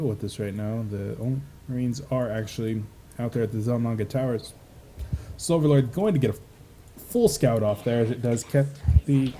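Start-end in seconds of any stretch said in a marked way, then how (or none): 5.4-9.3 hiccuping mid-sentence; hiccups. Real, not acted. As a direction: talk through bad hiccups. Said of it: "I have the hiccups so bad right now".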